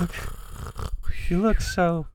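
high, slow seductive elf; flirty high voice. Acted. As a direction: purr it like a flirt. Wife elf's seductive voice.

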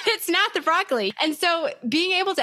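laughing through the words. Real, not acted. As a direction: chuckle it out, amused. Laughing agreement with co-host.

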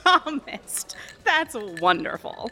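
sarcastic. Real, not acted. Waitress mocking her.

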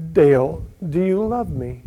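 soft, low, gentle question; voice of Jesus. Retold or imitated. Jesus to a worshipper at his feet, soft and low. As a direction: ask it softly as the Lord. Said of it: "heard the voice".

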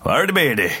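high-pitched, garbled British-accent attempt; terrible accent. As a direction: badly imitate an unintelligible British accent. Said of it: "that was a terrible accent".

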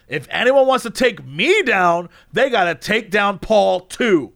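retold tirade at near talking volume; imitated screaming rant. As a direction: act out an indignant rant, drawing out the key words. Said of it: "let me describe to you what he was screaming".

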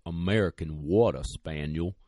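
lightly imitated slow Southern drawl; a hint of a gentleman's Southern drawl. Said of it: "like that slow Southern drawl".

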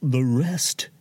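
mock-tragic, high, breaking off between gasps of feeling; a staged dying swan of a host; hammed-up dying. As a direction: overplay a melodramatic deathbed farewell. Host fakes his own dying.

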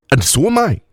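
put-on high accented add-on; Mauxi woman's accent. A narrator's reading. Woman admitting she's drunk too, high Mauxi accent. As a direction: add it with deep vowels. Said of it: "her accent marked by deep vowels and sharp consonants".

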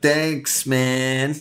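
stoner thanks. Retold or imitated. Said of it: "pretend to grab it and take it and say".

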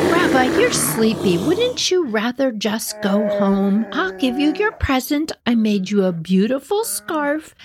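a hint of a kindly little old woman; old lady voice. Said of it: "she's like".

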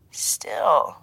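mildly offered one-word comment. A narrator's reading. Handler teasing his agent by phone, mild comment. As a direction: put it in gently, understated. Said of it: "Arun commented mildly".

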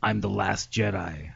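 low, slow toy voice; talking plush toy. Retold or imitated. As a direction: drop low and drag it out. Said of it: "here's what he says after that".

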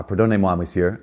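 "Pardonnez-moi, monsieur" said in French; polite French apology; French phrase. Retold or imitated. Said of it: "her last words were".

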